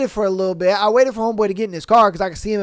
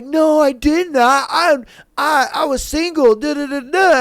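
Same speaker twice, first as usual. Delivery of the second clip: higher-pitched imitation of her denial; mock defensive protest; 5 semitones higher than usual. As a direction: protest it up high, as her in the retelling. Woman's retold defensive denial.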